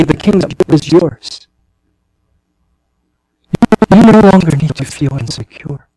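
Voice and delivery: a hint of the Father speaking, assuring; voice of the Lord. Preacher voicing the Lord to the congregation, lightly assuring. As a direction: speak as God adopting His child, gently firm. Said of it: "the Lord is saying".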